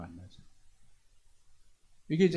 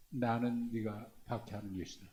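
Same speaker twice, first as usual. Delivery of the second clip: soft, gentle words of the Lord, said much softer; hushed voice of Jesus; 4 semitones lower, 9 dB quieter than usual. Acted. Preacher voicing Jesus to Paul, hushed and gentle. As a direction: let it fall quietly, like a revelation.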